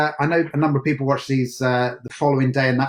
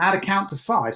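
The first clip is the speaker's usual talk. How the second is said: higher southern accent, no H on "How"; dropped T's and H's; 4 semitones higher than usual. Shown as a demonstration. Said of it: "We didn't have any T's or H's".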